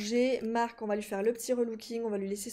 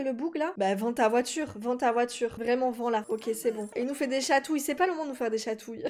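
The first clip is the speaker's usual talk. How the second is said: ordinary talk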